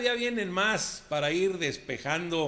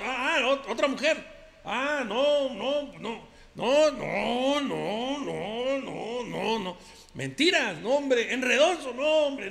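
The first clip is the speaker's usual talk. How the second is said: ranchero macho compadre; 3 semitones higher than usual. Acted. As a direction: play the swaggering macho who denies everything. Macho compadre character monologue. (compadre ranchero presumido y bravucón)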